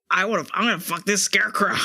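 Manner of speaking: a lightly voiced friend's impression, slightly put-on; mock a friend's voice, half-joking; Kez impression. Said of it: "That's what Kez sounds like".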